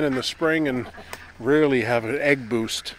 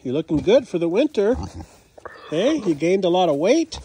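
a touch louder, fond pet voice; pet talk; 2 semitones higher, 4 dB louder than usual. Real, not acted. Praising the animal's winter coat, fond pet talk.

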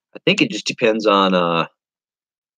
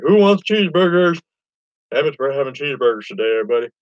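raised, higher call across the yard; 5 semitones higher, faster than usual. Retold or imitated. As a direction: shout the offer to everyone outside. Calling out to family from grill.

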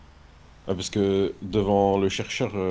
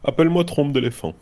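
put-on character voice; 5 semitones higher, faster than usual. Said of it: "une autre voix".

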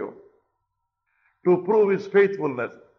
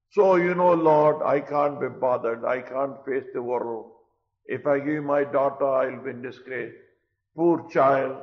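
king bargaining with God; 3 semitones lower than usual. Retold or imitated. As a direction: play a shifty king fobbing off God. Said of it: "He could talk like that".

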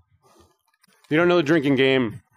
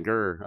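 mock growl; 6 semitones lower, 7 dB quieter than usual. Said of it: "I'm so mad".

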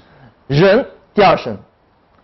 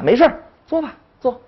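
good-mood teacher; 8 semitones higher than usual. Acted. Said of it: "他感觉心情很好的时候".

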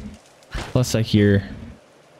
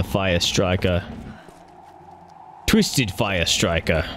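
dramatic slow title; 4 semitones lower, 5 dB quieter, much slower than usual. Pretend. Grand slow title for item.

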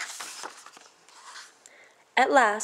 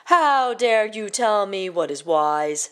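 shouted; slower than usual. Acted. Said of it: "shouted the king".

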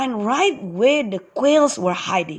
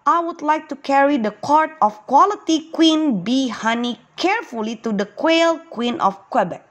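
excited; 3 semitones higher, faster than usual. Acted. Quitty volunteers to carry honey, mildly excited. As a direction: hurry the offer like a thrilled child. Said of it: "jumping up and down excitedly".

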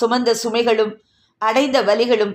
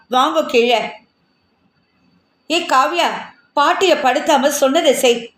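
put-on calling the children; 3 semitones higher than usual. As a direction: call the kids downstairs.

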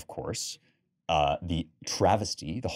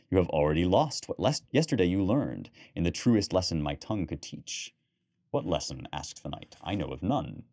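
measured reading with lightly voiced lady and knight; story narration; 2 semitones lower than usual. A narrator's reading. Lecturer reads the Gawain bedroom scene to the class, storytelling voice. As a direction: tell the scene as a tale, voicing the lovers only a little.

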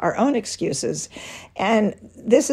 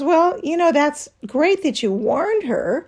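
higher-pitched, gently sweet retort; sweetly; 6 semitones higher than usual. Retold or imitated. Friend gently answering a critical husband, sweetly. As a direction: put on a sweet, tactful tone. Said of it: "very sweetly said".

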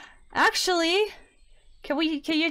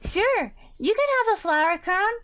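smiling; 7 semitones higher, 4 dB louder than usual. Acted. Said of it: "with a big smile on her face".

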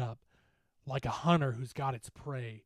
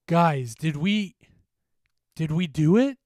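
hesitant disbelief; 3 semitones higher, 10 dB louder than usual. A narrator's reading. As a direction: ask in stunned hope, rising at the end. Friend asks after the battle.

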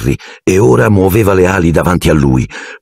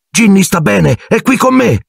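higher, a muffled call from behind the rocks; muffled shout. A narrator's reading. Ron calls to Harry through the rocks, a high muffled shout. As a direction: yell through the rubble to be heard. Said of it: "il grido soffocato dell'amico".

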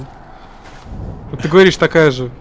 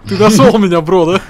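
loud high call to a friend; 4 semitones higher, 7 dB louder than usual. Real, not acted. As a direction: call out across the map. Calling to teammate.

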